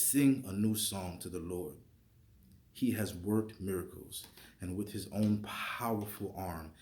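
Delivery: reading Psalm 98 aloud with conviction; scripture reading. Acted. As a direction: read it like a proclamation.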